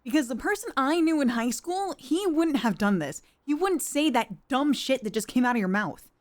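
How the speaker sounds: indignant, emphatic accusation; heated reproach. Acted. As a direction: confront an old friend who has let you down. Acted confrontation with former friend, boss.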